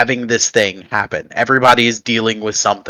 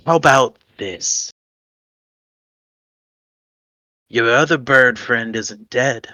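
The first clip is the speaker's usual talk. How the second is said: lightly voiced tempter; 4 dB quieter than usual. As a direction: offer the deal with calm menace. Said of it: "you're gonna hear a voice again".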